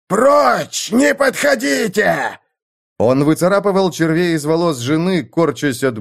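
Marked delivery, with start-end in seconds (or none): 0.1-2.4 high-pitched warning shout, last words stretched out; furious yell. A narrator's reading. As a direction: yell to drive everyone back. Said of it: "но тот заорал".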